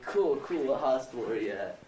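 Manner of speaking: excited high burst; mom freaking out. Retold or imitated. Mom hearing she's a grandma, excited. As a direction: imitate mom's sudden excited rush. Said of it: "my mom freaked out".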